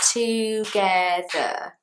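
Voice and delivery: "together" stretched out as TOO-GE-THER; three syllables. Shown as a demonstration. Teacher demonstrates a longer word, slow three-part "together". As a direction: give each syllable of "together" its own slow beat. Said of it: "three syllables".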